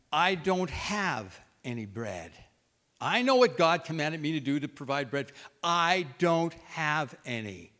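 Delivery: loud, slow and bitter; bitter outburst. Acted. Widow to Elijah, a slow, loud, bitter outburst. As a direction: spit out that there's nothing left. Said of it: "she looks at him and she says".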